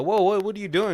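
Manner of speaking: high, loud startled outburst. Retold or imitated. Jamal startled when Victoria undresses, loud and high. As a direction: yelp it, caught completely off guard.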